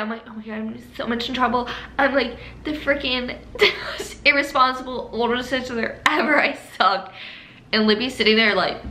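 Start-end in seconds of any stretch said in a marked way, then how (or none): 0.3-7.1 retold panic, rushed start and higher pitch; freaking out. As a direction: berate yourself in a mock fluster. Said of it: "I was freaking out".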